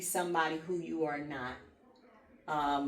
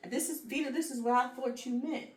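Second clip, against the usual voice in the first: higher-pitched imagined check-in; checking with friend; 8 semitones higher than usual. Acted. Speaker asks friend Vita what she meant, higher-pitched check-in.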